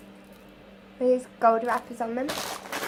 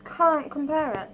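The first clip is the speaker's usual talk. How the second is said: mouthful. Real, not acted. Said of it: "Sorry, I'm talking with my mouth open, mouthful".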